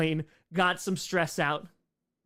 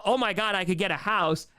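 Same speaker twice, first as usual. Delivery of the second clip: excited panic. Retold or imitated. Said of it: "a panic of".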